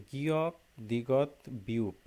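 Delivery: slow, careful Korean consonant names গিয়ক, দিগত, বিউপ spelled out clearly; teacher sounds out গিয়ক, দিগত, বিউপ slowly for the class; Korean final consonants. Shown as a demonstration. Teacher drilling students on Korean letter names, slow and clear. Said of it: "ওই যে উচ্চারণ আছে".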